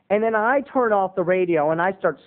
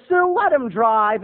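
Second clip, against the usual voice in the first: slow louder mock dad; 5 semitones higher, 5 dB louder, slower than usual. Dad telling mom to let the son drive, slow mock voice. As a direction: settle it slowly. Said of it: "my dad would go".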